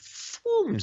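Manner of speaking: airy "phew" sound effect; imitated whoosh. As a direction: make the noise of a sudden burst. Imitates effect blinding him in story.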